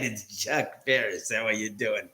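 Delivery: Chuck Barris impersonation. Retold or imitated. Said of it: "my best impersonation of him".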